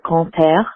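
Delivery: grand-père said the French way, uvular r. Shown as a demonstration. Voicemail listener teaching French names, French grand-père. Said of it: "for future reference".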